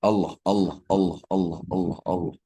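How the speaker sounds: each Allah said fully and deliberately, fall on the end; mean every Allah, unhurried and felt; mindful zikir. Shown as a demonstration. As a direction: clear devoted chant of Allah. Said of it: "ketika kita melihat sesuatu".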